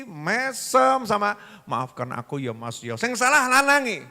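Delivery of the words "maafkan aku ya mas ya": lower, softer humble plea; soft apology. Acted. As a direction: beg forgiveness gently. Wife apologises to angry husband.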